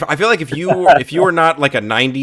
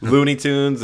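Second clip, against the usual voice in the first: ordinary delivery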